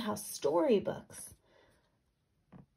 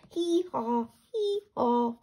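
raised braying hee haw; donkey bray; 4 semitones higher, 3 dB louder, slower than usual. Acted. Reading the donkey's reply, a braying hee haw. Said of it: "said the donkey".

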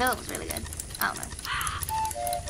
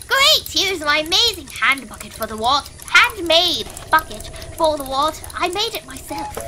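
put-on very old man. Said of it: "my papyrus voice and my old man voice".

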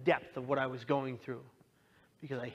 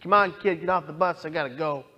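put-on louder, brusque driver shooing a kid off; impatient bus driver; 2 semitones higher, 6 dB louder than usual. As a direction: hurry him off, wants to get going. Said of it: "in typical San Francisco Muni fashion".

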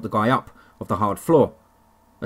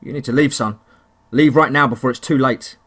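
angry; 4 dB louder than usual. Acted. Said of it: "he responded angrily".

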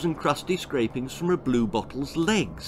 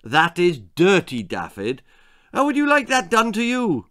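scolding; 4 semitones higher, 4 dB louder than usual. Acted. Mother scolding the boy.

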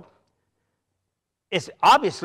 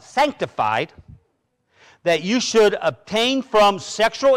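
scripture reading; 3 dB louder than usual. Acted. Reads scripture aloud.

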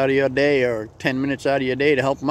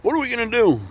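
much higher, squeaky small-mouse voice; a panicked tiny mouse begging for help, pitched way up; frantic little mouse; 12 semitones higher than usual. Acted. Mouse begs the chicken for help, high and squeaky. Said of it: "he says".

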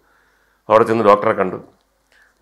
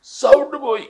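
imitating a lost voice, high and strained; mock voiceless friend, high strained rasp; voice gone airy; slower than usual. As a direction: squeeze out an airy croak with only breath. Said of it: "കാറ്റ് മാത്രമേ വരുന്നുള്ളൂ".

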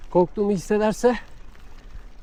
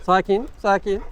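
soothing. Real, not acted. Calming a chasing dog.

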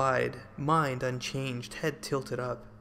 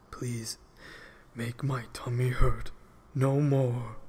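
defeated; 2 semitones lower, slower than usual. A narrator's reading. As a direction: beg wearily, giving up. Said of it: "the giant said, defeated".

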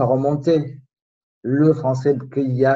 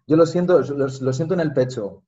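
speaking Spanish. Shown as a demonstration. Repeating the point in Spanish for his friend. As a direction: say it again in Spanish. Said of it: "fais la traduction".

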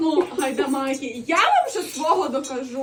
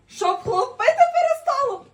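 mocking laugh; 9 semitones higher, 6 dB louder than usual. Mocks the angel's words.

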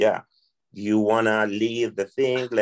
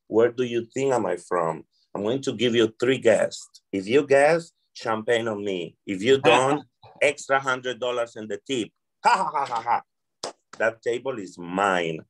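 playful joking. Retold or imitated. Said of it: "So then I make it a joke".

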